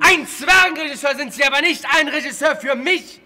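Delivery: contemptuous angry outburst; berserk rage. Real, not acted. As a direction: sneer it out loud. Shouting down the director.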